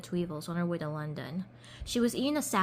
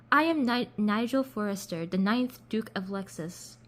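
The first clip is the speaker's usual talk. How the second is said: lightly faked British duke; attempted British accent. British duke introduces himself to Chloe, amateur British accent. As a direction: try a British accent, slowing on the title. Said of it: "I'm trying to do a British accent".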